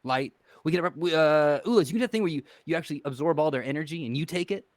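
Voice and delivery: lightly put-on accent picked up in Vegas. Character warns two gentlemen in his borrowed Vegas accent. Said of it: "why I talk like this with this accent".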